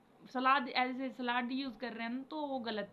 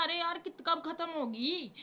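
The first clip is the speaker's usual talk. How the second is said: bored sigh; 5 semitones higher than usual. Retold or imitated. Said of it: "मैं ऐसे वो सोचती थी".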